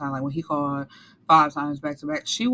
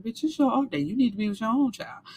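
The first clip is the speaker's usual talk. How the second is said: higher, quick mock scolding; sassy scolding, voice pitched up; scolding retort; 5 semitones higher, faster than usual. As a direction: tell her off with sass. Speaker's own scolding quote.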